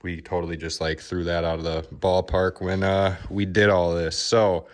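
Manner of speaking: winded, breathing hard between phrases. Real, not acted. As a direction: talk while catching your breath. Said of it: "I'm out of breath".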